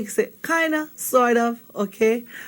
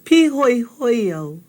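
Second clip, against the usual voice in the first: slow model phrase. Shown as a demonstration. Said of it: "Can you say that with me?".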